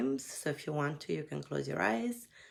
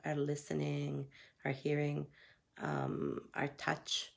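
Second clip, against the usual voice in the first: guided meditation. Acted. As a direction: lead them gently outward. Guides the senses outward.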